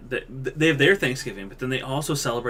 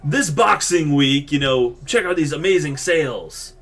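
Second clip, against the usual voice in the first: slow, drawn-out mock radio ad read; mocking a Canadian radio ad for a sales week; 5 dB louder, slower than usual. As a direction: hype it like a cheesy sale ad. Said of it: "I hear ads on the radio".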